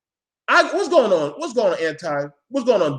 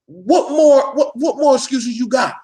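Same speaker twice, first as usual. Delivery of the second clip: incredulous half-laughing yell; exasperated shout; 4 semitones higher, slower than usual. Retold or imitated. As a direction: blow up at them in disbelief. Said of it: "I'm like".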